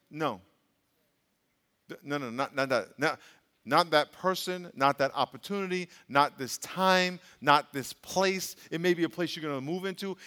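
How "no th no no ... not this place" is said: gentle inner voice. Retold or imitated. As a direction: lower and gentle, like conscience. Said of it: "the Holy Spirit will say".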